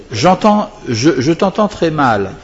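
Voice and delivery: loud and slow, as if straining to hear on the phone; half-acted caller who can barely hear; bad phone line.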